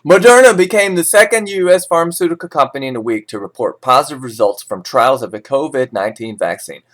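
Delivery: steady newsreader delivery of market levels; measured financial news read. Acted. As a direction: read it like a forex bulletin. Reads forex news script.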